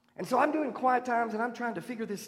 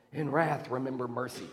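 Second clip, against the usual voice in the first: softened plea; 8 semitones lower, 6 dB quieter than usual. Acted. End of the prayer, dropping.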